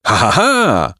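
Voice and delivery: acted birdlike "ha, ha, ha"; rasping bird laugh. A narrator's reading. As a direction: wheeze out a scornful laugh. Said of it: "zarzęziły ptaki".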